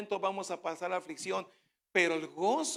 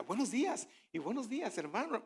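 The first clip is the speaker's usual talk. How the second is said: a light, raised, friendly "Buenos días"; cheerful greeting; 4 semitones higher, 4 dB quieter than usual. Retold or imitated. Preacher imitating hurting members greeting cheerfully. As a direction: greet with a put-on smile. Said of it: "entran con una sonrisa".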